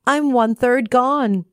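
lightly voiced, high and dismayed; a hint of a worried cookie; gingerbread man voice. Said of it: "said the gingerbread man".

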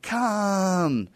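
long high drawn-out Khan scream. Retold or imitated. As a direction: belt it out like Kirk screaming at the sky. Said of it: "And so he's like".

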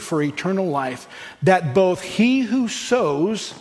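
slow, solemn reading of the verses; measured Bible reading; slow scripture reading. Acted. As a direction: let each phrase of the text land slowly. Reads scripture aloud.

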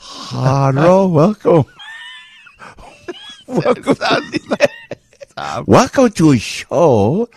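high, hammed-up Chinese accent greeting; mock Chinese accent. Radio host mocks Chinese guest, hammed-up accent. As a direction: welcome them in a cartoon Chinese accent. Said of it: "That is a communist Chinese accent".

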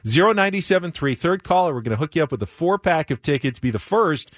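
upbeat on-air giveaway pitch; punchy DJ contest read; radio contest promo. Acted.

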